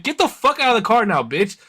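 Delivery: high, heated order; furious demand. Retold or imitated. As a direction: yell at the driver. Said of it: "I was like".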